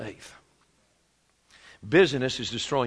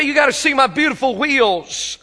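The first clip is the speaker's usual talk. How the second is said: mock boastful car owner; 11 semitones higher, 9 dB louder than usual. Mocking a materialistic listener.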